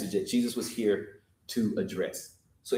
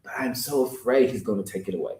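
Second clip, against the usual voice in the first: 1 retold nervous confession; 3 semitones lower than usual. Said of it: "And he says".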